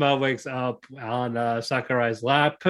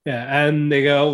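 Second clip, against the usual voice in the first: ordinary delivery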